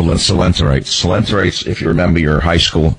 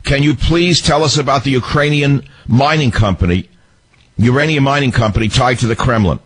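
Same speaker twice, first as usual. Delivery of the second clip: higher, pointed pretend grilling; mock reporter question; 3 semitones higher than usual. Host imitating press grilling Secretary Clinton, mildly mocking. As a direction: ask it like a hard-nosed reporter. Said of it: "Did they ever say".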